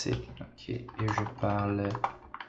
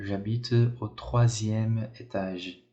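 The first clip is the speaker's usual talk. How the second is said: slow model sentence; much slower than usual. Shown as a demonstration. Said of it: "teacher model sentence".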